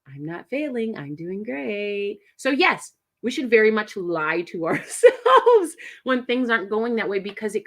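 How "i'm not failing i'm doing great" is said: calm affirmation. Shown as a demonstration. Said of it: "the mind shift comes when I tell myself".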